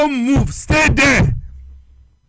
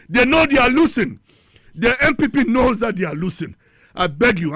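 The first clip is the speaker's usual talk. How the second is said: breathless after shouting; winded, pushing words out; out of breath. Real, not acted. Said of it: "I'm running out of breath".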